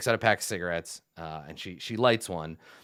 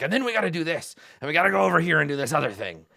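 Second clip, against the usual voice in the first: higher, hurried and pushy chatter; eager rambling; 5 semitones higher, faster than usual. Acted. Game master mimics Ironclad chattering at the Vidochin, eagerly. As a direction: rattle it off excitedly, pitched up.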